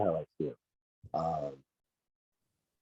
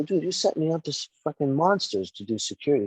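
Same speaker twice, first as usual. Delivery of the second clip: higher-pitched incredulous complaint; retold protest; 7 semitones higher than usual. Wrestler recalling confronting the promoter over security, incredulous protest. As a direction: replay your indignant disbelief.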